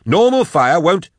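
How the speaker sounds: high, urgent scolding; exasperated yelling. A narrator's reading. Continuing yelled argument, cut off.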